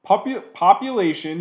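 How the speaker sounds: put-on a light British accent on "population", echoing the clip; mimicking British accent. Mocking the host's slip, in a British accent. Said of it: "he said in a British way".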